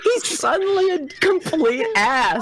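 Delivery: slow, drawn-out read. Acted. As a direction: stretch each word out slowly. Reading fanfic aloud.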